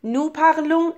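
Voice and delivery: "parlons" ending in a nasal on, s silent; silent final s. Shown as a demonstration. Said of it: "اس بی صدای تلفظ نمیشه".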